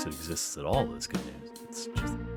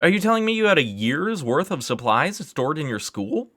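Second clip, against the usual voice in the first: high, loud, incredulous questioning; exasperated, voice pitched way up; worked-up outburst; 12 semitones higher, 7 dB louder than usual. Acted. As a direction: fire off disbelieving questions at full pitch. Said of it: "got a bit worked up".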